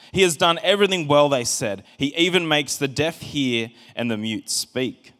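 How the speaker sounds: measured Bible reading to the church; scripture reading. Acted. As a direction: read the passage out steadily.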